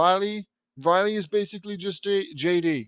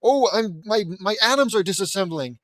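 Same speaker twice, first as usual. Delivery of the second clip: loud, high, hammed-up panic as body falls apart; overacted cartoon horror, shouting it out; a silly kid melting away in mock terror; mock panicked mutant; 6 semitones higher, 8 dB louder than usual. Cartoon kid mocks radiation mutation.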